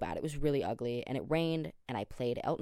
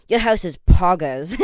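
much louder, higher, cracking up; laughing quote; 9 semitones higher, 17 dB louder than usual. Retold or imitated. To a lady at her house, laughing loud exclaim. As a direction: blurt it out through laughter.

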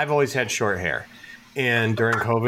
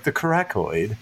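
imitated British accent on "coracoid". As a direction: say "coracoid" like a put-on Brit. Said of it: "doing his British accent".

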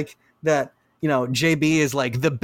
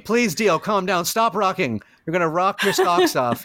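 put-on fussing kids; 5 semitones higher than usual. Kids voiced fussing over old Dio.

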